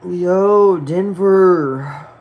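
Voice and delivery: high, loud hail to a viewer; excited shout-out. Real, not acted. Streamer greets a viewer who just arrived, excited. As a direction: call his name out like spotting a friend.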